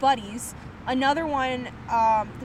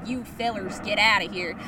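half-hearted Southern tough guy; Southern accent; 4 semitones lower than usual. Retold or imitated. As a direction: try a rough Southern accent. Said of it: "why they made him Southern".

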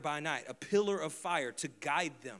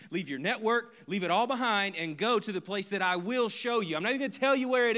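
rising, louder preaching, each command pushed higher; preaching at full force; 7 semitones higher, 9 dB louder than usual. Acted.

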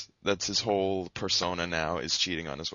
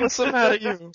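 put-on Italian mobster accent; 10 dB louder than usual. Joining Italian impression.

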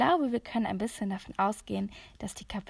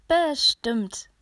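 higher, louder eager call; 5 semitones higher, 7 dB louder than usual. A narrator's reading. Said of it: "rief Katharina". (laut rufend)

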